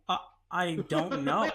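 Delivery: slow, laughing uh I don't know; laughing reply. Retold or imitated. Clueless roommate answers the interrogation, laughing. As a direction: chuckle it out, clueless. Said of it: "And I go".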